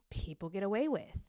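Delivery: usual speaking voice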